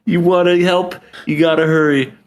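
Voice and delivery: high-pitched mock yelling mom; hectoring mom. Mom hurrying her running son from the car, high mock yell. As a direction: squeal it like a bossy mother, then ease down. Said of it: "And she's just like".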